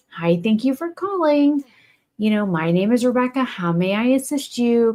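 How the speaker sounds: bright, courteous phone-agent script; polite call-center greeting. Shown as a demonstration. Bank rep greeting a caller politely. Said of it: "I don't change my voice tone for anybody".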